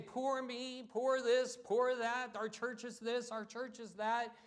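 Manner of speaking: lightly mock a self-pitying complainer. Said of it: "And we say".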